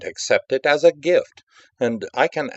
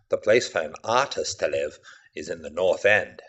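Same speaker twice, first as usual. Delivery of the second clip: Pickman, confiding. Acted. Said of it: "he said".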